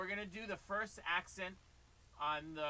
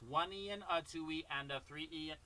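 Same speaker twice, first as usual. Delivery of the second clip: steady count. Shown as a demonstration. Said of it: "don't go too fast".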